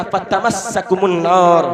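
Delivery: slow, intoned Arabic phrase; slow chanted verse; Quranic recitation. Acted.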